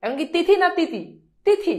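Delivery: তিথি with an aspirated th, then plain ti; তিথি said thithi, then titi for contrast. Shown as a demonstration. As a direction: set তিথি with th against তিথি without it. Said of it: "এখানে হচ্ছে তিথি".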